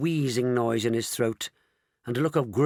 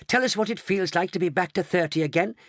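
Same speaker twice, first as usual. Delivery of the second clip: higher, eager questioning; excited; 7 semitones higher than usual. A narrator's reading. Grandpa Joe to his younger wife, excited. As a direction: press eagerly for an answer. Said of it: "asked Grandpa Joe excitedly".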